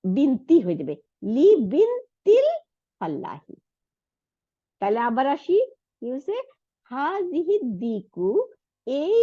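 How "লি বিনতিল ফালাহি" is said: slow demo. Shown as a demonstration. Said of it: "লি দিলেই".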